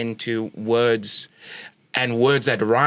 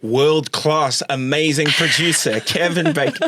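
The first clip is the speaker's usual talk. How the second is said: mock big-build introduction, louder and higher; hype announcement; 5 semitones higher, 4 dB louder than usual. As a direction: hype him up like a compère, laughing at the end. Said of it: "He would want me to say that".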